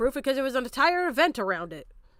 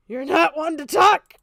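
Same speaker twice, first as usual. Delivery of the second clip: louder, slower: You're not one to talk!; angry repeat; 2 semitones higher, 5 dB louder than usual. Real, not acted. Streamer shouting back at a critic. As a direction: slam the word talk with a rising snap. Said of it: "repeats it louder".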